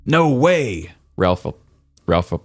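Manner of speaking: glitching call audio; wobbly warbling call audio. Real, not acted. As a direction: repeat like a broken connection. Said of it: "You're glitching again".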